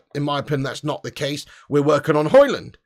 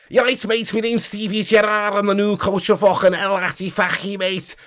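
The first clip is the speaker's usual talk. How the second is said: thick Scouse take-off of a football manager; mock Scouse accent; 3 dB quieter than usual. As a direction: imitate a Scouser introducing himself. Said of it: "talking in a Saudi Arabian slash Scouse accent".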